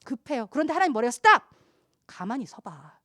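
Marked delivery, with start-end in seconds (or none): 1.1-1.4 loud, raised-pitch order to stop; acted sharp command; commanding halt. Acts out God ordering a halt. 2.1-2.9 low, very soft, calming order; acted quiet restraint; hushed command. God gently telling the anxious to stand.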